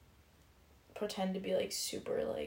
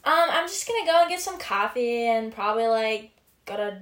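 put-on valley girl voice; 5 dB louder than usual. Shown as a demonstration. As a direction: play a bored valley girl. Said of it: "Should I do it? (valley girl)".

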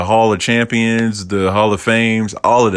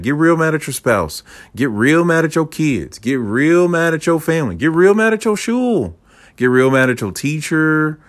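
tempter Amalek egging on; 5 semitones higher than usual. Retold or imitated. Tempter urging listeners to rage at family, getting higher and more insistent. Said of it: "Amalek comes in and go".

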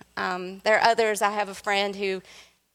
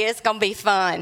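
ominous teasing. Retold or imitated. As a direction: tease that trouble's coming. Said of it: "I'm like".

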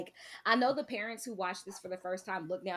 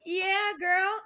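high, sassy cat, much higher; 11 semitones higher, slower than usual. Retold or imitated. Retelling the cat's reply to Danny, high and sassy. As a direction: voice the cat like a diva. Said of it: "he's like".

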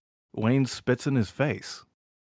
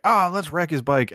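higher, lightly acted suggestion; mock eager; 7 semitones higher, 4 dB louder than usual. Guys deciding about Wayne's bike, mock eager. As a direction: imitate guys egging each other on.

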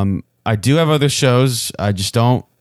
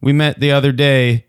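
reading as Vance; 4 semitones higher, slower than usual. Retold or imitated. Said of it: "Vance says".

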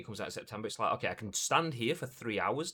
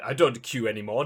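loud, haughty star demanding special treatment; mock entitled celebrity; 9 dB louder than usual. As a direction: play the self-important VIP, booming. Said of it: "So I'm like".

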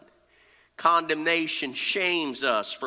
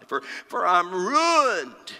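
slow, preached lament; crying out; 3 semitones higher, 3 dB louder, slower than usual. Acted. Preacher voicing Isaiah undone before God, crying out. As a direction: draw out the word of ruin. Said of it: "I cry".

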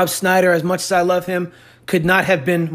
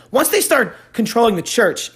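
throat catch; 4 semitones higher than usual. Real, not acted. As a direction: voice catching on phlegm. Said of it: "excuse me, I need a Zyrtec".

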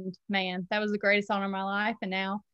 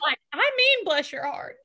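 earnest bless your heart; 6 semitones higher, 4 dB louder than usual. Shown as a demonstration. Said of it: "Y'all don't understand".

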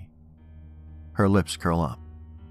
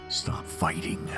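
ghostly whisper; 5 dB quieter, much slower than usual. A narrator's reading. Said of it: "she sounds almost like a dying cat".

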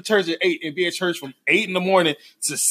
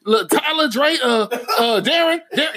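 lightly voiced grandma groping for names; raised pitch, halting between wrong names; muddled grandma; 4 semitones higher, slower than usual. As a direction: imitate a flustered grandma searching. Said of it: "they don't call you by your name".

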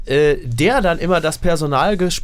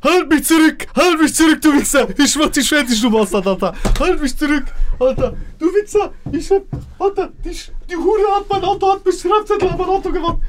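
wrestling promo; 12 semitones higher than usual. Retold or imitated. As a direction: scream it like a hyped-up wrestler hyping a fight. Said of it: "der Philosoph Wolfram Eilenberger, gesagt hat". (schreiender Wrestling-Promo-Ton, hoch und laut)

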